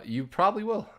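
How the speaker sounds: squeaky teasing high pitch; high playful voice. Real, not acted.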